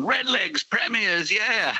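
mild, high-pitched victory yell; half-volume imitation of yelling for the team; retold celebratory yell. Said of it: "started yelling".

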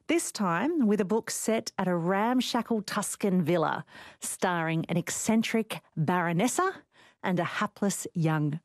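polished radio presenter read; scripted guest introduction. Acted. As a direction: introduce the author to listeners in measured phrases.

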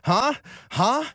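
sharp high puzzled huhs, not hearing anyone; can't hear over the headphones, so confused huh, huh, huh. Retold or imitated. After the music stops, someone talks to him: baffled high huhs. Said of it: "and I'm like".

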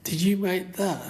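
put-on high, wide-eyed child's voice; amazed little girl. Neighbour girl asks about the ant houses, high and amazed. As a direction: sound like a little girl in awe. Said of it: "She went".

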